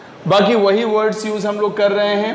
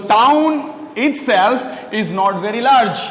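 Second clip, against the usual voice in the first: slow repetition; 2 semitones higher, much slower than usual. Shown as a demonstration. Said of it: "क्या?".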